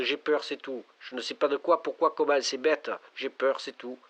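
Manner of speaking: fearful. Acted. Lonely caller confesses fear.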